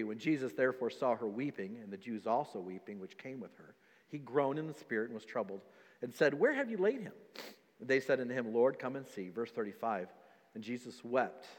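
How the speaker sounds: low, soft reading from the Bible; scripture reading. Acted. Preacher reads the story of Jesus weeping to church, subdued scripture reading.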